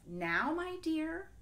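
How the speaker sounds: sly wolf plotting. Acted. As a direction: lure her into a race. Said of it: "said the wolf".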